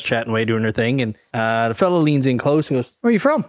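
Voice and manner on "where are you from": high-pitched questioning impression of a local; imitated local man. Curious local man leaning in to the foreigners, imitated high. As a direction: mimic the stranger's question, pitched way up. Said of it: "You sound just like that?".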